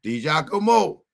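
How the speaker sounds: lightly put-on wiseguy sincerity; hammed-up mafia warning; mock mobster. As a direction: play a paisan swearing he's trustworthy. Mobster vouches for himself.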